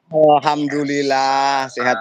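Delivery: talking with a cigarette; speaking around a cigarette; cigarette in mouth. Real, not acted. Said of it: "Maaf ya, sambil merokok".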